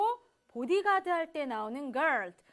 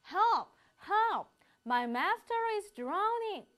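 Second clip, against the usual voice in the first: high, urgent cries for help; fluttering cries for help; 6 semitones higher, much slower than usual. Shown as a demonstration. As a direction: call out like someone is drowning. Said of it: "다급하게 외치는 모습".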